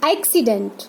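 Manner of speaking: एक्सीडेंट starting on an open ae; ae sound demonstration. Shown as a demonstration. Teacher models the two-matra sound, open ae starting एक्सीडेंट. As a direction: open the first vowel of एक्सीडेंट to ae. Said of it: "दो मात्राएं हैं".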